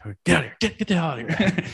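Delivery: half-laughing shoo-away, rising at the end; mock dismissal. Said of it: "I'm like".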